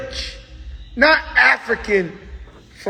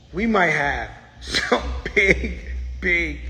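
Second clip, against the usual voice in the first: slow tease fading softer with each big; teasing fade; 5 semitones lower, 7 dB quieter, slower than usual. Acted. Host teasing upcoming guests, softer and softer. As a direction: let the bigs trail off softer.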